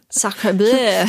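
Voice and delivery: lightly hammed French accent; french chef. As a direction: toss it off in a mock French accent. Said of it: "He would say".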